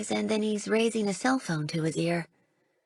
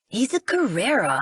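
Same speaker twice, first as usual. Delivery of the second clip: louder, venomous contempt; spitting out the word; 3 semitones higher, 4 dB louder than usual. Acted. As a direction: spit out Carrera like poison. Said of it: "He spits out the word as if it were poison".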